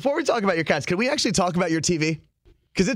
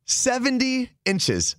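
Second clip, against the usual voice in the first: amazed; 8 semitones higher, much slower than usual. Real, not acted. Echoing the TV size in disbelief.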